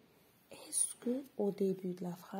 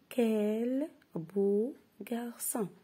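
slow, admiring exclamation; 3 semitones higher, much slower than usual. Shown as a demonstration. Teacher modelling an exclamatory sentence, admiring. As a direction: show the wonder in it. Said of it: "On a le mot d'exclamation".

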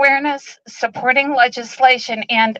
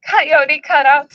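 emotional; 3 semitones higher, slower than usual. Real, not acted. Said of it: "Sorry, I'm very emotional".

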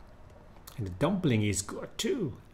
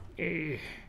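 frowning sigh; 4 semitones higher, 6 dB quieter than usual. Shown as a demonstration. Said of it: "let me try some frown".

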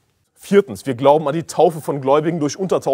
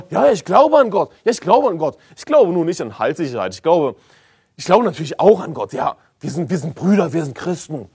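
mock false teacher; 3 semitones higher than usual. Preacher mimicking false teachers who claim brotherhood, mocking voice. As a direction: parody the smooth heretic. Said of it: "so kommen die Irrlehrer daher".

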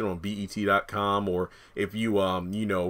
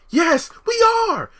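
much higher, slow shouted yes; 9 dB louder, slower than usual. Retold or imitated. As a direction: insist over her, yelling. Acted quarrel, Zach's lines.

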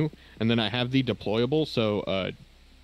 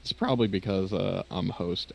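a real crack in the voice, slowed down; 2 semitones lower than usual. Real, not acted. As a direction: voice cracking mid-sentence. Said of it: "that voice crack".

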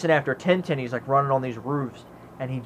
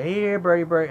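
higher, coaxing mock call; mock bird call; 4 semitones higher than usual. Fun Boy calls the crow over, mock coaxing call. Retelling character calling a bird.

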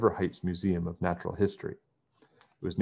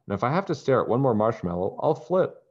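exasperated; 5 semitones higher, 5 dB louder than usual. Acted. Fed-up girl complaining.

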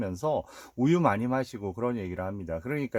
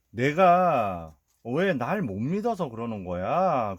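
retold irritation; 4 dB louder, slower than usual. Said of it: "승질을 냅니다".

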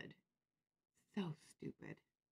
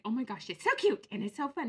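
high, louder retold gush; gushing catchphrase; 6 semitones higher, 6 dB louder than usual. Shopper complimenting a crafter's necklace, catchphrase gushing. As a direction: slip into the gushy catchphrase. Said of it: "I was like".

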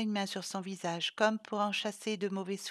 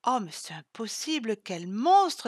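indignation criée, plus forte; s'écrie; 2 semitones higher, 7 dB louder than usual. Acted. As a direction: crier son horreur. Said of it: "s'écria". (Sylvie s'indigne en criant)

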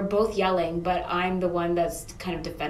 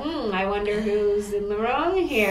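smug; slower than usual. Retold or imitated. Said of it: "being like".

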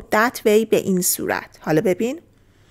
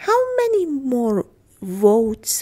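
raised model phrase; 3 semitones higher, much slower than usual. Shown as a demonstration. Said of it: "teacher models English line".

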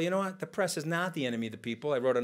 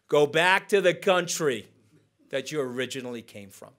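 hostile quote; 5 dB louder than usual. Retold or imitated. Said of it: "that is an American racist nativist trope".

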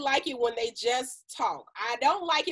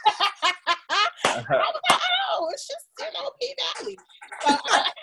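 high-pitched, laughing through the words; 12 semitones higher, 3 dB louder, slower than usual. Real, not acted. Explaining the show to her boyfriend, retold while laughing. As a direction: giggle your way through a sheepish explanation.

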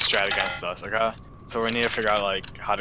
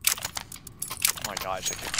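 breathless disbelief; 3 semitones lower, 8 dB quieter, much slower than usual. Real, not acted. Stunned after the win.

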